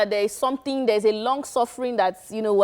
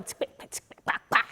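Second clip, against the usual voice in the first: imitated drum beat; 5 dB quieter than usual. Shown as a demonstration. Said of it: "You know when you're hitting the drum".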